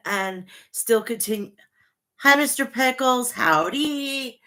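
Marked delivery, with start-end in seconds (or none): 2.2-4.4 higher, sing-song hello to the pet; pet greeting. Real, not acted. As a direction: coo at the pet for a moment. Greeting her pet mid-rant.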